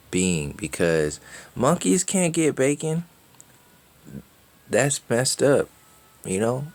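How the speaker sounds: high, excited mock enthusiasm; sarcastic rant. To viewers, mocking the program's idea of evolution, in high sarcastic excitement. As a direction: gush sarcastically about bacon like it's salvation.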